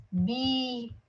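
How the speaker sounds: "Bíblia" drawn out as bi, bli, a; "Bíblia" in three stretched, separate syllables; mistaken syllable split. Shown as a demonstration. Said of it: "olha como é que a pessoa faz".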